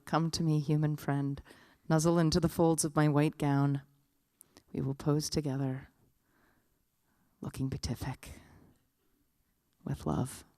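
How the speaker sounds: measured, fading into softness; serene living statue. Acted. Living statue welcoming a human friend to pose, serenely. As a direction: beckon tenderly with long pauses.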